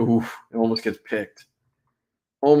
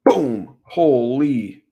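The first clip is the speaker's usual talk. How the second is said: a loud burst of excitement at the hit; excited shout; 3 semitones higher, 8 dB louder, much slower than usual. Real, not acted. Watching a huge hit on film, excited outburst. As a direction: blurt it out, thrilled by the collision.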